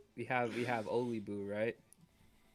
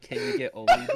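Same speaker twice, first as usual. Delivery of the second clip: high squealing laughing ask; laughing plea; 12 dB louder than usual. Retold or imitated. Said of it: "And they're like".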